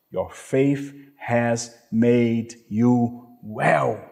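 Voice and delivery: slow, calm and tender; gentle Jesus. Retold or imitated. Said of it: "but Jesus said to him".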